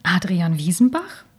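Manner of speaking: whispered in disbelief; incredulous whisper. Acted. Woman whispers his full name, not believing it. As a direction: breathe the name out, unvoiced and stunned. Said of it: "Ein ungläubiges Schnauben entfuhr ihr".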